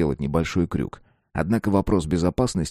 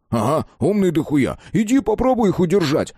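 high-pitched irritated retort; snapping back; 10 semitones higher, 3 dB louder than usual. A narrator's reading. Колян retorts to Маркин's reproach, snapping back high. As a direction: climb into a sharp, exasperated comeback. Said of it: "огрызнулся Колян".

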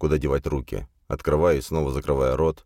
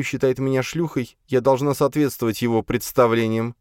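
hysterical defiance; 8 semitones higher than usual. A narrator's reading. Elfrida to Flapping Eagle, defiantly mocking his opinion. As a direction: fling the phrase again and again.

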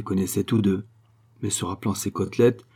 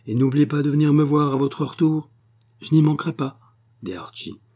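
lightly voiced Sophie; 3 semitones higher than usual. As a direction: coax him, sly and knowing. Sophie's parting words to Archie. (une pointe d'intrigante rusée)

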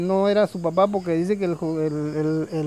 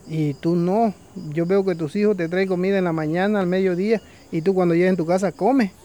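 insistent vulture; 4 dB louder than usual. Acted. Vulture argues against swapping.

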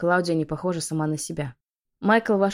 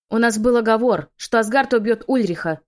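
higher and louder, furious outburst; blurted in fury; 5 semitones higher, 7 dB louder than usual. A narrator's reading. Witch blurting at the heroine in fury. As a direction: spit it out at her enemy. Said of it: "выпалила Клаудия".

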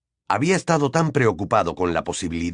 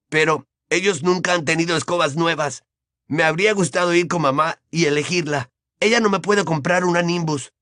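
put-on higher, brighter-spirited boy voice; cheerful boy; 7 semitones higher than usual. A narrator's reading. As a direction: chat eagerly about a new broom as a boy. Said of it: "con un tono de voz más alegre". (voz de chico más alegre y aguda)

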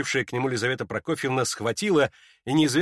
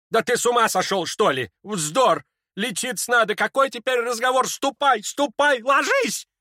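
higher, alarmed urging; frightened shout; 11 semitones higher, 4 dB louder than usual. Acted. Lizaveta urges sick Ippolit to bed, frightened cries. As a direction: shoo him off in a fright. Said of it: "испуганно крикнула".

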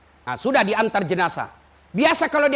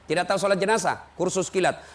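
ordinary delivery

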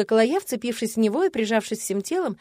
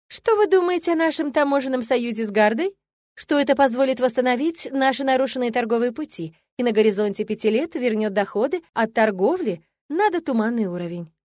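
rattled off; 2 semitones higher than usual. Acted. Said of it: "Механически оттарабанила я".

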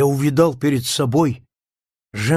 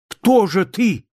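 high, louder, slow exclamation; beside himself; 8 semitones higher, 3 dB louder than usual. A narrator's reading. Narrator shouts at the evil figure, beside himself. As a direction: cry out, beside yourself with fear. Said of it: "вне себя воскликнул я".

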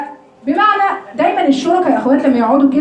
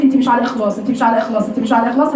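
devil's whisper; 4 semitones lower, faster than usual. Acted. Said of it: "ممكن يقعد يوسوس لك".

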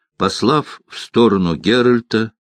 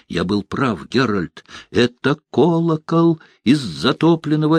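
higher, eager storyteller's voice, lingering on the omen; excited bard Dandelion; 4 semitones higher than usual. Acted. Bard spooks the witcher about the drowned bell, eager and higher. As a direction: spin it like a spooky legend.

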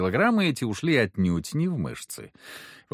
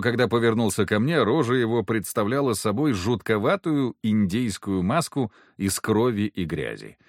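usual speaking voice

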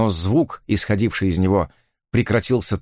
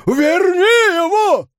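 very high, loud, slow scream; desperate shout; 5 dB louder, much slower than usual. Acted. Father screaming at the hero to bring the horse back, desperate shout. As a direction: try to force it with one shout. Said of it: "добиться одним криком".

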